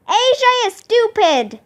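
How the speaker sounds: high, fast taunting call; mild yell, quick and high. A narrator's reading. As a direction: holler a schoolboy taunt. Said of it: "yelled Ryan".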